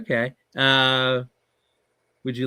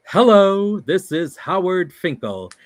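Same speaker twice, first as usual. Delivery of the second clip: booming ring announcer call, high and slow; loud, drawn-out announcer greeting; Howard Finkel voice; 7 semitones higher, 7 dB louder, slower than usual. Retold or imitated. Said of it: "does his voice".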